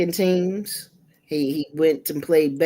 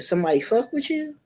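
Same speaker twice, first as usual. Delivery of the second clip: protective mom; 7 semitones higher, faster than usual. Retold or imitated. Mom asking son about trouble.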